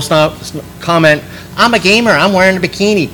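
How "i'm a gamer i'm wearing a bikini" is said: sarcastic. Retold or imitated. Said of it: "she was being a little bit sarcastic".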